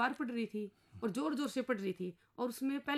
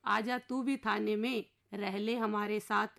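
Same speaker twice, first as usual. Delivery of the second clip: slow, measured verse recitation, a touch louder; poem recitation; 3 dB louder than usual. Acted. Henpecked husband reciting his plea to the inspector, slow verse.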